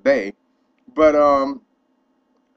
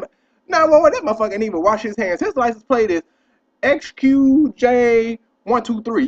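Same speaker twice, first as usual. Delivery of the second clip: mock 911 call; 7 semitones higher, 4 dB louder than usual. Mock 911 call reporting him.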